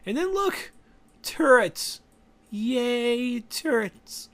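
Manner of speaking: high, loud mock excitement; fake-excited about turrets; sarcastic cheer. Real, not acted.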